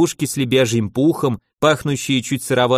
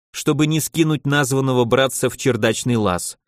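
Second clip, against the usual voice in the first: usual speaking voice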